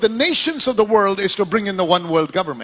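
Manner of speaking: driving sermon delivery to a crowd; forceful preaching. Acted. Preaches to a congregation.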